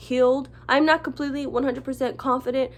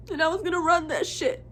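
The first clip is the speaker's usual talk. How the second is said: fighting back tears on the last words; crying; 3 semitones higher than usual. Real, not acted. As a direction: voice breaking into tears. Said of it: "I hate crying".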